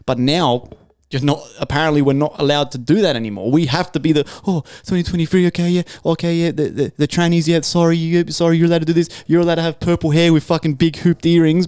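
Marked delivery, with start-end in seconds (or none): 4.5-11.7 lightly acted sarcastic placating; mock a fussy, over-apologetic pushover; mock appeasing. Podcaster parodies people bowing to modern rules, mock appeasing. Mocks imagined politically correct apologisers.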